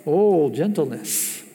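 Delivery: slow and tender, drawn out; slow, tender demonstration of gentleness; gentle. Shown as a demonstration. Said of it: "Does that sound like an angry person".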